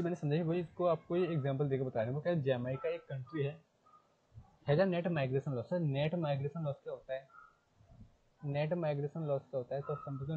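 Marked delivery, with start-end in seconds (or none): 4.7-5.7 reads the English line out word by word, slowly; slow textbook reading. Shown as a demonstration. Teacher reading the textbook to students, slow and deliberate. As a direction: spell the sentence out slowly for the class.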